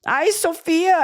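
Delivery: high, swooning cry; a hint of sensual moaning; mock ecstatic eater. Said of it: "he, like, eats around her".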